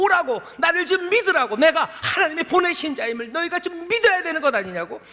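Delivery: high, loud pleading cry. Retold or imitated. Jesus crying out to us to come and believe, urgent. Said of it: "오늘 우리에게 외치시는 거예요".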